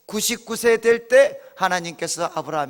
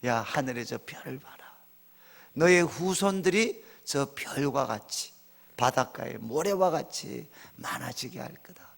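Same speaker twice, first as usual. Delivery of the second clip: 낮고 작게, 은근히 속삭이듯; 밤하늘 아래 약속하듯 나직하게; 분위기 잡는 하나님; 4 semitones lower, 6 dB quieter than usual. Retold or imitated. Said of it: "하나님도 이렇게 분위기를 좀 잡으세요". (분위기 잡고 조용히 읊조리듯)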